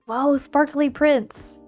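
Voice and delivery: ordinary delivery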